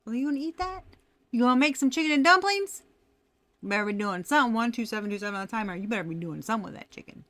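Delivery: mock-angry grilling; mad scolding. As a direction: act out a mad, loud challenge that settles into rapid nagging. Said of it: "I was mad".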